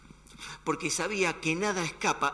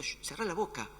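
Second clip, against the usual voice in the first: soft hush; 2 semitones higher, 5 dB quieter than usual. Acted. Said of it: "Le dice al viento".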